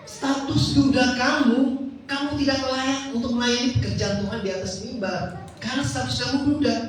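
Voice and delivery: firm. Retold or imitated. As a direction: lay down the verdict firmly in her voice. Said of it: "mengatakan dengan tegas". (tegas meniru istri pendeta)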